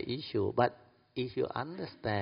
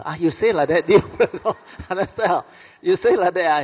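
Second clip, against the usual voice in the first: loud, raised voice driving the point home; emphatic teaching; 8 semitones higher, 12 dB louder than usual. Real, not acted. Teacher stressing the lesson to the audience, loud and emphatic. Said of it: "teacher drives the point home".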